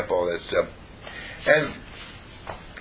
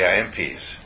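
calm affirmation; 5 semitones lower than usual. Shown as a demonstration. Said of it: "and you say".

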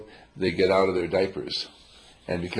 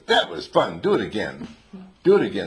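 put-on thrilled kid pleading for more; excited begging; 5 dB louder than usual. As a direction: burst out with delight. Thrilled little one begging repeat.

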